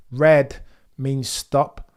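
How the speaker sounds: drawn-out, loud reminder; slow loud repeat. Real, not acted. Streamer repeats the red light rule to the driver, slow and loud. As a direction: say it slowly, word by word.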